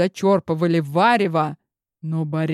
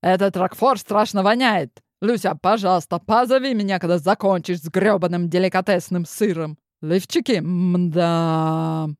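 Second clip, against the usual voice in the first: grumbling chef. Acted. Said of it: "пробурчал великий повар".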